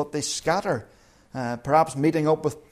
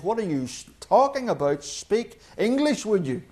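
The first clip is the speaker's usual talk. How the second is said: foreign labourer; 4 semitones higher than usual. Retold or imitated. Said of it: "answers in Swahili and says".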